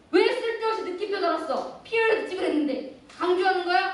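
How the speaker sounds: high-pitched, pointed, challenging tone.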